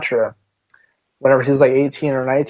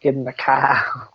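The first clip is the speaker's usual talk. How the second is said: slow American "Get in the car"; American accent; 4 dB quieter, slower than usual. Shown as a demonstration. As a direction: say it like an American would. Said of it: "You sounded like an American there".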